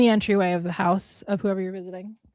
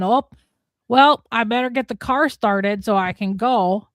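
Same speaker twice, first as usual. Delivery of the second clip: Minnesota goodbye; 3 dB louder, slower than usual. Shown as a demonstration. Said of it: "The Minnesota goodbye".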